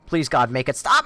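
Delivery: desperate plea. Real, not acted.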